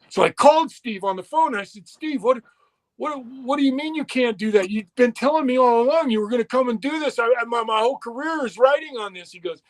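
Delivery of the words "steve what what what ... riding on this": fast, raised, pleading rush; retold frantic pleading. To Steve on the phone, a rushed, high-pitched plea.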